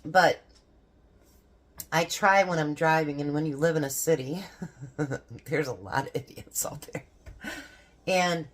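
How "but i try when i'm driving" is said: ordinary delivery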